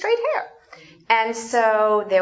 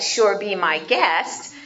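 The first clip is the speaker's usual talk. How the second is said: sarcastic; slower than usual. Shown as a demonstration. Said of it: "in a sarcastic way".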